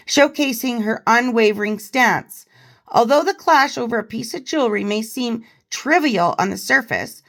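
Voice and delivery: measured, emphatic news-style reading; article read-aloud. Acted. Host reading a royal biographer's revelations to viewers, article read-aloud.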